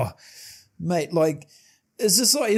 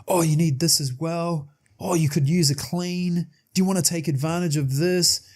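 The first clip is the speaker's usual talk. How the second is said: dentist's upsell pitch; 2 semitones higher than usual. Retold or imitated. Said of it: "and he goes".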